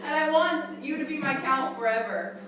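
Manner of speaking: high, loud, laughing plea; loud high lovesick plea; pleading squirrel. Acted. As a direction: beg her like a lovesick squirrel.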